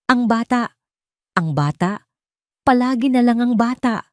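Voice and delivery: put-on exasperated, voice rising over the child. A narrator's reading. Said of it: "Tumaas ang boses ni Isabel". (galit na pagtaas ng boses ng asawa)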